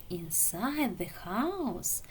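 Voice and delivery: slow, soft spooky telling; dramatic hush. Acted. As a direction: build suspense slowly. Lemon telling the secret dramatically.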